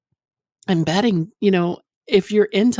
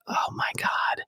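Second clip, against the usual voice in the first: whispered, barely audible gasp of awe; breathy whisper; 9 dB quieter, slower than usual. Retold or imitated. Retelling her reaction to a client's moan, whispered. Moaning reaction retold as I'm like.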